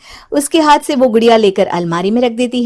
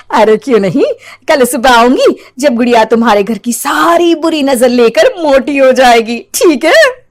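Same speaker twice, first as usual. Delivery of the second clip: laughing witch; 3 semitones higher, 3 dB louder than usual. Acted.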